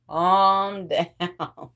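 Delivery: "Calm down" broken by a laugh. Real, not acted. Telling herself "Calm down" and laughing through it.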